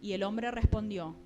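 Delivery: measured, deliberate Bible reading; scripture reading. Acted. Preacher reads Genesis to the congregation, deliberate scripture reading. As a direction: read the verse out clearly, phrase by phrase.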